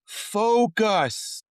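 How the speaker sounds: high, drawn-out mimicry; mock echo. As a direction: parrot the word back. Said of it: "he goes".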